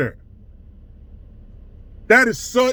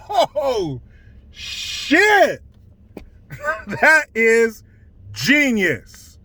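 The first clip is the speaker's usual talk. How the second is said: laughing through the words in amazement; real laugh, half admiring; laughing disbelief; much slower than usual. Real, not acted. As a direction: chuckle out a grudging compliment. Laughing at the manipulation.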